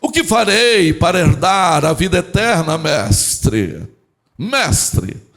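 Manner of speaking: mock-pious, pompous public questioning; religious voice. Law expert testing Jesus, hammed-up religious voice. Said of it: "Olha o que ele vai dizer".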